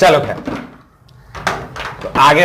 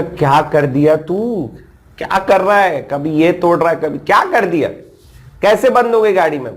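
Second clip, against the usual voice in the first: retold, pitched-up annoyed scolding; irritated outburst; 5 semitones higher than usual. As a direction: demand what he's done now, fed up. Fed-up retold reply to friend.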